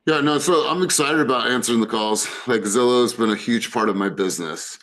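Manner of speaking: half-hearted claim of excitement, imitated; imitating a disengaged participant. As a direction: act out an unconvincing contributor. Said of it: "they contribute like this".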